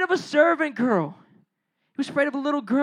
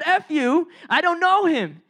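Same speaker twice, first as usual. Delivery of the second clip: higher, acted angry outburst; cussing out; 3 semitones higher than usual. Peter denying Jesus to his accusers, acted cussing out. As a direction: cuss them off in mock anger. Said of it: "he started cussing people out".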